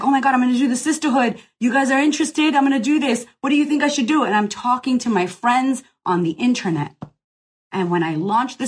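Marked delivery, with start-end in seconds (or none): 0.0-4.2 quick, lifted, eager chatter; giddy plans. Retold or imitated. Founder pitching her sisterhood to online friends, quick and eager. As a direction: spill the idea fast, can't contain it. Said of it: "And I was like".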